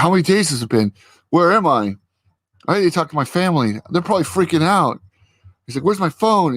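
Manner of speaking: a touch of desperate confusion; mild mock panic. Freed coworker panicking to Vision, high mock panic.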